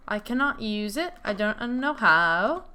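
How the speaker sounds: lightly put-on Swedish accent. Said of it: "I did a Swedish accent".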